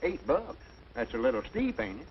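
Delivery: high, startled protest; shocked at price. Acted. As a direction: balk at the price.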